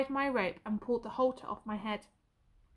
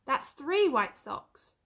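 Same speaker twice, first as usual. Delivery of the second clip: slow deliberate; 3 semitones higher, 4 dB louder, much slower than usual. Acted. Counting white socks slowly.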